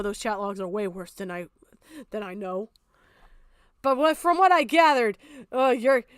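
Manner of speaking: normal talking voice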